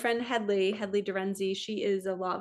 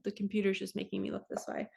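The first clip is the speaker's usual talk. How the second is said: ordinary delivery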